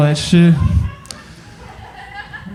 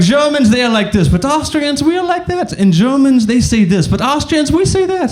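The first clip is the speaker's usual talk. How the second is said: high, sing-song mock-Austrian voice; Austrian accent; 9 semitones higher than usual. Austrian lecturing on Germans versus Austrians, high Austrian accent. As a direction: imitate an Austrian setting himself apart, pitched high. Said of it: "keep talking about their stupid culture".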